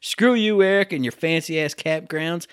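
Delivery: fake-angry jab at a friend; mock jealous rant. Jealous co-host ranting at his lucky friend.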